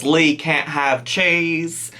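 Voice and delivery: put-on slow, clumsy British accent; bad British accent. Reactor quoting the mum about her son, bad British accent. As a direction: attempt a British accent, slowly and badly. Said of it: "that was the worst British accent on my part".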